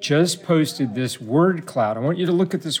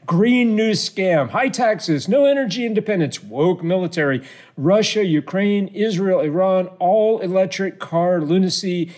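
raised, emphatic mock rant; Donald Trump; 4 semitones higher than usual. Host reading Trump's list of grievances, mock-ranting. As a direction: declaim each grievance higher, stretching some out. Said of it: "this is Donald Trump".

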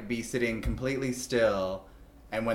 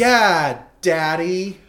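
loud, higher, hammed-up dirty talk; over-eager pretend dirty talk; dirty talk attempt; 8 semitones higher, 8 dB louder, much slower than usual. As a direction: belt it out as a mock come-on. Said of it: "that is exactly how Dirty Talk starts".

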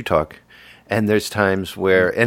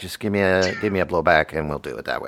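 imitating friend's voice. Showing co-host how he sounds, sinking mumbly impression. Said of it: "You sound a little bit like this".

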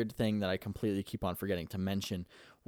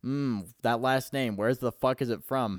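mock pondering; 2 semitones higher, 5 dB louder than usual. Wondering where the last name is from, mock puzzled. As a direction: act out searching for a familiar name.

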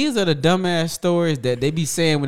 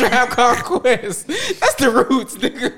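slow words through laughter; correcting while cracking up; laughing; 5 semitones higher, slower than usual. Real, not acted.

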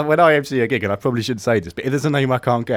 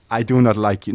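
failed attempt at a Russian accent; half-hearted, bad Russian accent; botched Russian accent; 4 semitones lower than usual. Shown as a demonstration. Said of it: "No, that's rubbish".

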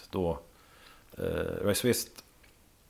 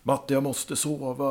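just woken up; 5 semitones higher, 5 dB quieter than usual. Retold or imitated. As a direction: play someone barely awake, dragging the words. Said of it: "bara yrvaken".

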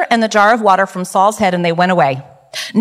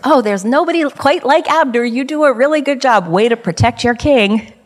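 sarcastic; 3 semitones higher than usual. Acted. Preacher voices David taunting Abner for his poor guard, sarcastic. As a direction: lay on the sarcastic compliment. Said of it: "I can hear a little sarcasm in his voice".

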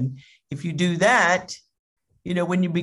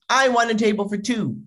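higher, imperious request; lightly acted demand; 4 semitones higher than usual. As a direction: imitate an entitled customer. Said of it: "and he demands".

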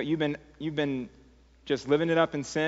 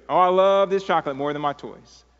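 louder, playfully excited exclamation; mock delight; 3 semitones higher, 6 dB louder than usual. Son seeing chocolate over his toys, mock delight. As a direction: gush like a kid spotting candy.

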